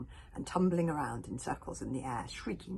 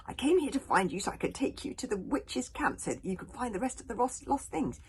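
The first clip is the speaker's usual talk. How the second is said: louder, higher desperate insistence; rasped pleading; 6 semitones higher, 5 dB louder than usual. Acted. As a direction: insist you're on her side. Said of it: "he rasped".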